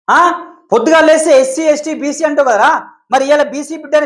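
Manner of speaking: real heated shouting at a rival; angry outburst. Real, not acted. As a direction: lash out at him in anger. Angry rant at the caller's boss.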